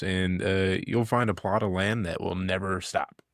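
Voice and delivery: improvised sponsor read with mock-earnest pitch; hesitant announcer selling the absurd. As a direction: deliver a makeshift podcast sponsor spot.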